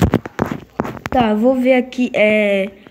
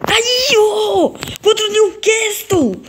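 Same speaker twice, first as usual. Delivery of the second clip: excited; 9 semitones higher, slower than usual. Real, not acted. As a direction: cheer it with a laugh. Gol contra o Newcastle. (comemoração animada com risada)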